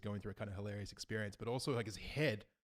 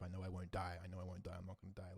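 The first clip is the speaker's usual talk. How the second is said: soft mantra; 3 semitones lower, 9 dB quieter than usual. Retold or imitated. Reciting a calming mantra.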